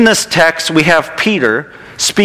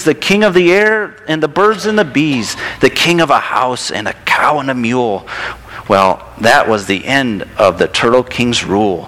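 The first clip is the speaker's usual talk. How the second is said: lilting, expressive picture-book narration; storybook read-aloud. A narrator's reading. Reading a turtle story to a child in church, storybook read-aloud.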